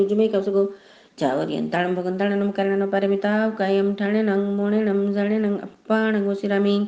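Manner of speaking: even, chant-like prayer recitation. Acted. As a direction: recite sacred verses in a steady tone.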